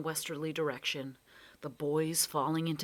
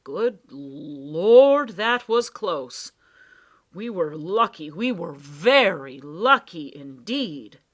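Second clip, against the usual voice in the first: louder, slow, breathy relief; shaken relief; 13 dB louder, slower than usual. Acted. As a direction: exhale after a close call. Professor relieved after near miss.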